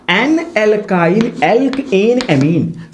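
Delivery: each word stretched out very slowly; teacher spelling out a naming rule slowly; very slow dictation. Shown as a demonstration. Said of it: "nomenclature कैसे करते हैं".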